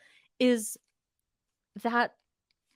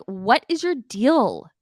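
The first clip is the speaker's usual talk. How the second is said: slow, drawn-out what is your deal; slow exasperated question to the cast; exasperated challenge; 4 semitones higher, slower than usual. Pretend. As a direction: demand an answer, fed up. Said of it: "just be like".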